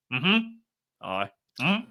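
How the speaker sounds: short grunted replies instead of words; mm-hmm, aye, mm, just grunts; imitated grunts. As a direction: grunt back like you won't talk. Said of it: "Like, just grunted at me".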